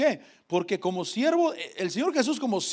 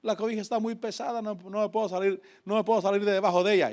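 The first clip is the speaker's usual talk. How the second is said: mock crying plea; 3 semitones higher, 4 dB quieter than usual. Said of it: "estar solamente llorando ahí diciendo".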